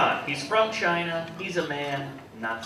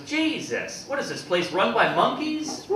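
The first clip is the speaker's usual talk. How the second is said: snapping customer; 8 semitones higher, slower than usual. Retold or imitated. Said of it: "the guy just snaps".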